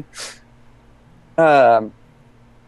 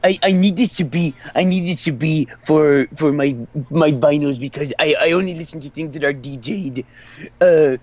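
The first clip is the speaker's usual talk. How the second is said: hipster voice. Acted. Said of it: "you were imitating D J hipsters".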